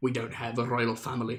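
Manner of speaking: terrible fake Irish brogue. Retelling how people replied to a remark about Irish royal families, bad Irish accent. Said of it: "that was a terrible Irish accent".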